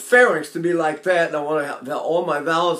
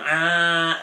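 ugly exaggerated tone. Shown as a demonstration. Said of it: "the voice just gets ugly".

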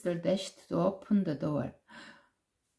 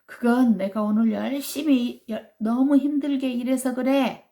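higher, louder pleading excuse; tiger's excuse; 6 semitones higher, 6 dB louder than usual. Acted. Tiger to children, higher pleading excuse. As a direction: whine like a caught beast. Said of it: "호랑이가 또 이렇게 말한 거야".

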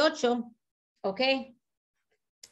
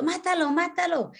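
high, pressing plea to kill it; urgent plea; 7 semitones higher than usual. Retold or imitated. Wife begging her husband to kill the centipede, pitched high. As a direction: urge him to kill it now.

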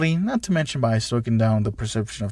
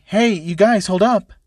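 calling out; 5 semitones higher, 4 dB louder than usual. Acted. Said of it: "someone called out".

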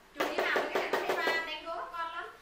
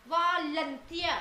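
"Volunteer" slowly, syllable by syllable; slow demonstration; much slower than usual. Shown as a demonstration. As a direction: spell out the sounds of "Volunteer" at half speed. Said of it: "Volunteer là chữ ở". (đọc chậm "Volunteer" từng âm tiết)

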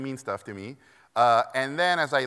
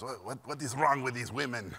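put-on Hungarian accent; 3 dB quieter than usual. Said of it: "he was Hungarian, thick accent".

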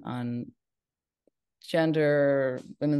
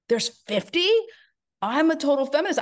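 surprised; 11 semitones higher, 4 dB louder than usual. Retold or imitated. Stunned at fifty women leaders.

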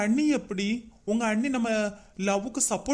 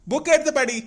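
louder, annoyed brush-off; irritated snapping; 3 dB louder than usual. Acted. Brother telling nosy sister to go study, irritated. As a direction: tell her off, get her away.

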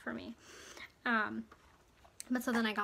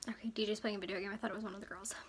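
whispered aside; 5 dB quieter, much faster than usual. Real, not acted. Aside about noise in the house.

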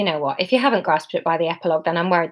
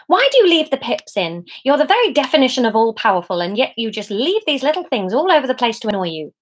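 lightly voiced devil, higher and nagging; exasperated devil; 5 semitones higher than usual. The devil complains to God about pips, mildly exasperated. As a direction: nag with mild exasperation, pitch lifted.

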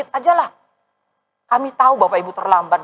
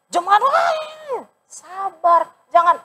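exhorting shout; 10 semitones higher, much slower than usual. Acted. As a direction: call out to the congregation. Preacher exhorts congregation. (pendeta berseru keras kepada jemaat)

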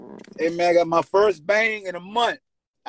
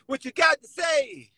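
retold shouting; 12 semitones higher than usual. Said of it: "I say".

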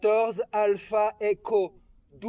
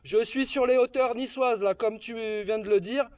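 over walkie talkie. Real, not acted. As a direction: voice through a handheld radio. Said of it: "avec mon talkie-walkie".

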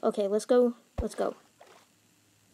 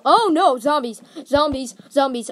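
alarmed; 3 semitones higher, 9 dB louder than usual. Real, not acted. Zombies appear suddenly.

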